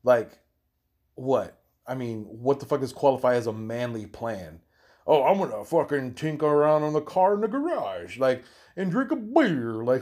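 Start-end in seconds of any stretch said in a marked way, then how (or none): 5.1-9.8 a lightly voiced, hammed-up bro bragging about his weekend; mock macho guy. Mocking the manly-plans posters on Facebook, in a light mock bro voice. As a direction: sneer as you parody the garage-and-beer guy, voice pitched a bit up.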